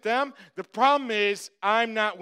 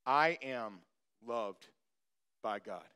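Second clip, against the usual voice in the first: softer, inward, spoken to yourself; 13 semitones lower, 11 dB quieter than usual. Shown as a demonstration. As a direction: murmur it softly, just for you. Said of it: "You need to say this to yourself".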